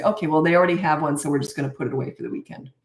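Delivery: matter-of-fact, unbothered statement; calm. Shown as a demonstration. Parent explaining the change of plan, calm and casual. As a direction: announce the change of plan without emotion. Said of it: "it's just calm".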